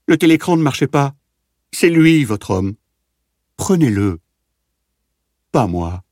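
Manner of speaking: heart-rending scream. A narrator's reading. Prisoner screams at the guards to take the other man, heart-rending scream. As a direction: shriek with raw terror, then give out. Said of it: "devint déchirante".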